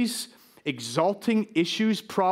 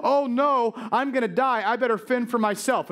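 lightly acted frightened orphan, pitched up; higher, mildly panicked self-talk; mock panic; 5 semitones higher than usual. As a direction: play at being scared in bed. Child scared of the boogeyman.

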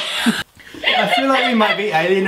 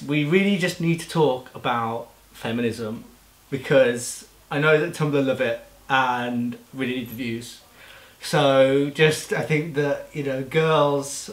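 lower, put-on serious voice; deeper voice; 4 semitones lower, 4 dB quieter than usual. Mocking a youtuber about feminism, in a lower voice. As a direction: drop the voice for a mock serious chat. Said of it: "Why have you put on a deeper voice".

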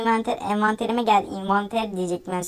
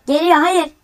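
loud, higher panicked hayır; panicked cry; 4 semitones higher, 9 dB louder, much slower than usual. Real, not acted. Gamer caught by the monster, loud panicked cry. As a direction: cry out as it catches you.

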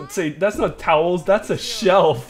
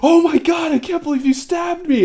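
high, loud mock disbelief; mock shocked boyfriend; 13 semitones higher, 4 dB louder than usual. Joking about a stabbed boyfriend, mock high squeal. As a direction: squeal it like a stabbed but unbothered guy.

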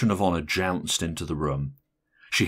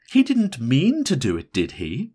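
high, insistent plea for confirmation; pressing; 8 semitones higher, 6 dB louder than usual. A narrator's reading. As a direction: press the question, starting high and loud. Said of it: "Missus Silsburn pressed".

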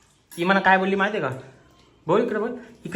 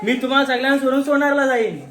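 mocking his wife; 4 semitones higher, faster than usual. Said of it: "आणि चैत्राली बोलतो".

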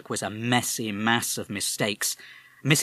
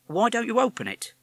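policeman; 13 semitones higher, 4 dB louder than usual. Acted. Policeman probes.

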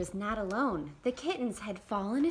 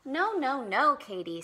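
louder, firm telling-off; scolding no; 4 semitones higher, 6 dB louder than usual. Acted. Girl scolds the dog for scaring kittens, firm. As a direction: stop the dog sharply. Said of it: "said Sarah Ann".

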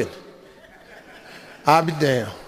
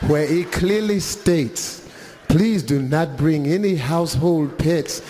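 low, slow, polished reading; a hint of a prim clerk; polite clerk; 3 semitones lower than usual. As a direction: read the rule with cool politeness. Clerk reads policy.

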